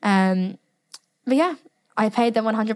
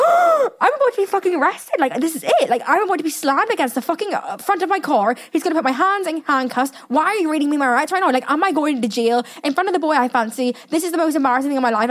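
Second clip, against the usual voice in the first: reliving the moment the officer read her rights, high and frantic; retold near-tears panic; 5 semitones higher than usual. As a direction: rattle it off like you're about to be arrested. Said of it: "I was literally near tears".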